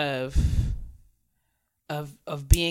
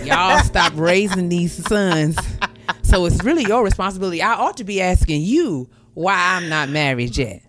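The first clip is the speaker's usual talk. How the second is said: laughing sass; 3 semitones higher, 4 dB louder than usual. Retold or imitated. Sassy comeback, laughing.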